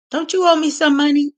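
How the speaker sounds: high-pitched mock-mother question; imitating mother's demand. Mother turns to sister out of nowhere, imitated demand. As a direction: pipe up as Mom calling in a debt.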